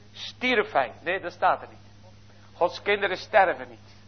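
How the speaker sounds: ordinary talk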